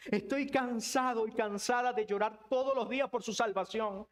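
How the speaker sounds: plea for loved ones, building in urgency; pleading lament. Acted. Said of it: "¿Cómo suena tu lamento".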